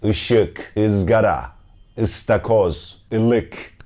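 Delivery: "Işık", "ızgara", "ıstakoz", "ılık" with a strong, tense ı; strong ı vowel. Shown as a demonstration. Teacher drilling Turkish ı words for students. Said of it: "put more emphasis on it".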